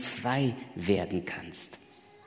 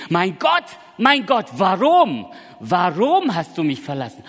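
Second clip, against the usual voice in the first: crying out; 6 semitones higher, 8 dB louder than usual. Retold or imitated. Preacher voicing Jesus on the cross, loud anguished cry. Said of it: "Oder hat Jesus Christus am Kreuz von Golgatha geschrien".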